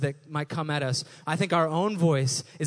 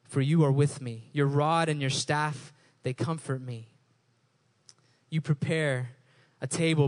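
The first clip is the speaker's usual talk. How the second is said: scripture reading. Acted. Reciting Psalm 23.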